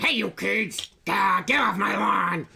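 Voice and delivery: put-on grumpy old man yelling; gravelly voice. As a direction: gravelly yell at the kids. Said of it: "This is just gravelly".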